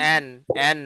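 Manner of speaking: এন said with the sound through the nose; nasal n sound. Shown as a demonstration. Teacher showing students the nasal এন sound. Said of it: "ন সাউন্ডটা আমাদের নাক দিয়ে বের হবে".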